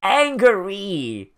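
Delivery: drawn-out, exasperated "angry". Real, not acted. Reacting to the show's ogre, angry. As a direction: stretch the word out in comic frustration. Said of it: "I'm just, uh, angry".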